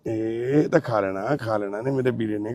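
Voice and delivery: low, soft, soothing murmur; gentle coaxing. Real, not acted. Urging his brother to eat, gently coaxing. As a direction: coax tenderly, voice dropped.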